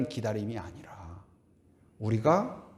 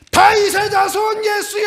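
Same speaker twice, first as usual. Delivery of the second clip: much higher, loud, desperate cry; desperate shout; 9 dB louder than usual. Retold or imitated. Blind Bartimaeus crying out to Jesus, loud shout. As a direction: shout it out like a blind man's last chance. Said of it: "바디메오가 뭐라고 합니까?".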